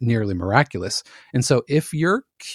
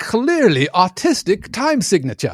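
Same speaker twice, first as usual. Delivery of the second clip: sarcastic editor; 6 semitones higher than usual. Retold or imitated. Mocking an editor's sarcastic complaint.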